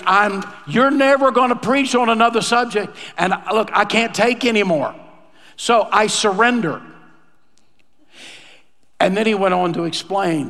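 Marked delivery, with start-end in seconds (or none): 0.1-6.8 higher, emphatic retold plea; exasperated surrender. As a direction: throw your hands up, pitched higher. Voices the exasperated man giving up.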